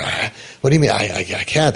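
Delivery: mildly flustered, imitating someone panicking; retold freak-out. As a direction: stammer a mock protest, a touch panicked. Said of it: "he was freaking out".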